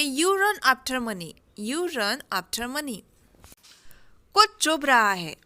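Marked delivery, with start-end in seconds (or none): 0.0-1.3 very slow, each word separate; slow dictation. Shown as a demonstration. Teacher modelling the sentence for learners, slow. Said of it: "तो इसे हम बोलेंगे". 1.6-3.0 very slow, softer, falling echo; slow soft repeat. Shown as a demonstration. Teacher echoing the line softly for learners. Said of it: "तो इसे हम बोलेंगे".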